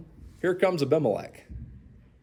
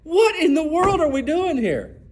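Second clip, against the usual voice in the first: exasperated inner thought; 7 semitones higher than usual. Retold or imitated. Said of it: "And you think".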